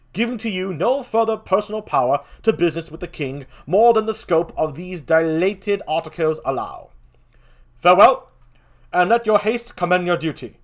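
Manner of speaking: declaimed Shakespearean king; grand, projected public address; the King, stately. Acted. King addressing his court and dispatching envoys, stately. Reads the King's speeches.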